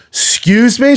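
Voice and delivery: high, indignant imitation of a girlfriend; affronted disbelief. Girlfriend challenging him at dinner, affronted high voice. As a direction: pitch it way up, affronted. Retold outraged girlfriend in restaurant.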